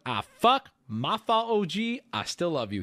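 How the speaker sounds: high, hasty mock apology; mock backpedaling. Streamer imitates the man backing down, high mock apology. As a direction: blurt it like someone caught out. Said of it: "This is him backpedaling".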